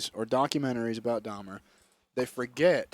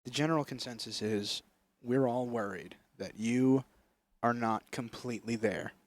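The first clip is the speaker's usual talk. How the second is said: mock interviewer; 4 semitones lower, 8 dB quieter than usual. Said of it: "the interviewer was like".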